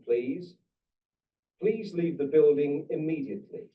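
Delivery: calm recorded PA announcement; steady public-address evacuation call; evacuation order. Real, not acted. Fire alarm PA announcement.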